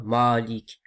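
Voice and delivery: "Malik" with dark "maa", final i dropped; faulty demo of "Malik"; heavy vowel, no ending. Shown as a demonstration. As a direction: end "Malik" on the k. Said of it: "c'est pas".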